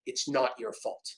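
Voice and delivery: whispered to self in mirror. Retold or imitated. To himself in the mirror, whispered. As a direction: breathe it under your breath.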